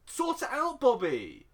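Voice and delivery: high-pitched, hammed-up bossy shout; mock demanding order. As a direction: order him about, high and insistent. Acts out character ordering Bobby about.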